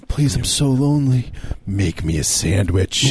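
slow, sinister plea; creepy lonely voice begging slowly. Pretend. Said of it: "your tone turns a little sinister".

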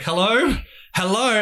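high questioning hello into silence; puzzled caller. Retold or imitated. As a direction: imitate a caller wondering who's there. Imitates clerk left on mute.

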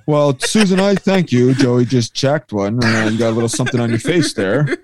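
lightly voiced booth banter to partner Susan; mock radio announcer. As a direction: play the old radio guy, half-joking.

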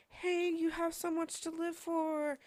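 sing-song it like a movie line; teen girl brightly cheering up a sad boyfriend; naive cheerful reassurance. Retold or imitated. Naive comfort to suicidal boy.

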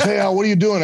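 high, loud call down the hall. Retold or imitated. Val calling down the hall to Al, loud and high. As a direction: shout the question across the hallway. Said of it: "He goes".

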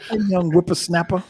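lightly voiced cranky old man; a hint of a creaky elder teasing the youngster; old prospector. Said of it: "now I gotta be the elder?".

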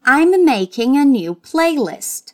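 slow, clearly articulated model sentence; each word laid out for the learner to echo; slow teacher repetition; slow drill. Shown as a demonstration. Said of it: "Let's repeat".

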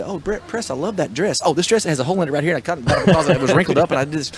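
breezy mock-girlish rambling with a laugh; daughter deflecting compliments. Father mimics his teen daughter dodging a compliment, light mock voice. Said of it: "she would be".

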